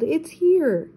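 high-pitched storybook yell; yelled alarm. A narrator's reading. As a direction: cry out that danger has arrived. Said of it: "Mister Ruckus yelled".

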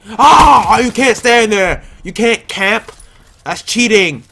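high, loud complaint; indignant yell. Real, not acted. Gamer killed by a camper, indignant yell. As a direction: protest at the camper.

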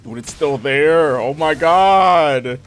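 long-drawn exasperated cry; exasperated groan. Real, not acted. Player finds the boss still chasing him, drawn-out exasperation. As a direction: drag the words out, loud and fed up.

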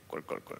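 quick, soft toneless glugs; imitated gulping. Preacher replays the man drinking stylishly, soft imitated gulping. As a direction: softly mimic swallowing water. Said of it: "소리가 나면서도".

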